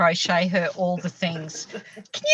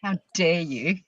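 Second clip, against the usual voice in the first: mock outrage; 3 semitones lower than usual.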